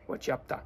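"What you up to" blended to "whatcha up ta"; casual Aussie "What you up to", words fused. Shown as a demonstration. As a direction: end "up to" on a short "ta". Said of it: "Se ha dicho como to".

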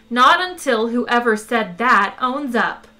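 loud, slow, lightly matriarchal insistence; insistent urging. A narrator's reading. Computer refusing to open the hatch, insistent. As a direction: urge it firmly, stretched out. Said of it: "urged the computer".

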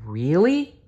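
put-on high rising childlike "Really?"; hopeful question. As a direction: ask with sudden hope. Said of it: "asked Lori".

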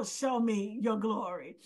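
low, softened imitation of a plea; understated plea, dropping in pitch; pleading. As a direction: quote it as a quiet entreaty. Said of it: "almost like a pleading".

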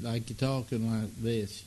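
easy, casual Texas drawl. Shown as a demonstration. Host showing what he picked up, Texas drawl. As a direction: demonstrate a laid-back Texas accent. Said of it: "a Texas drawl".

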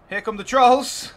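high, loud, drawn-out hype call; big, slow, excited shout; excited announcement. Pretend. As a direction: herald the monsters' arrival. Hyping trolls entering the battle.

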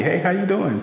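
high-pitched, playful hello; happy, jokey greeting. Acted. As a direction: imitate a cheerful guy greeting someone at a bar. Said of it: "you know, happy".

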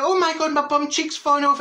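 high-pitched comic panic; retold horrified cry, pitched high; mock fright. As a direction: exclaim it in exaggerated alarm. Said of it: "what a fright I got".

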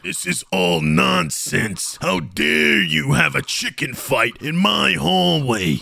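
a slow, lightly put-on principal; a touch of stern principal barking down the hall; principal's voice. Principal discovering chickens in the hallway, mildly stern. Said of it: "it's the principal".

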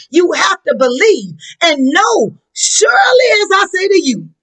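fervent shouted preaching, voice cracking; rising sermon climax; preaching at full force. Acted. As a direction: drive it home to the congregation.

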